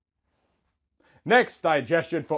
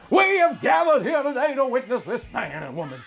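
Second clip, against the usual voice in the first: preacher; 7 semitones higher than usual. Acted. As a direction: proclaim like a wedding officiant. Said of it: "the preacher began to speak".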